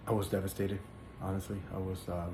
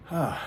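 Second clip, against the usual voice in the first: a brief, higher-pitched emotional "ah"; emotional sigh; 6 semitones higher than usual. Real, not acted. Man moved while telling his testimony, emotional sigh. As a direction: let out a sigh, moved by the memory. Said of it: "I just get a little emotional".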